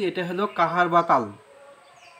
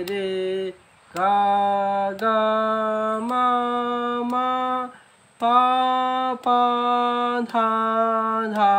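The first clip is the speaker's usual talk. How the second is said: slightly rushed tempo; 3 semitones higher, slower than usual. Shown as a demonstration. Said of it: "এটা একটু দ্রুত লয় হয়ে গেল".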